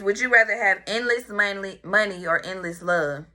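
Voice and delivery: words slurred around a tongue ring; talking with tongue ring. Real, not acted. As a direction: speak around a new tongue piercing. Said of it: "Y'all know I be talking fucked up. This fucking tongue ring".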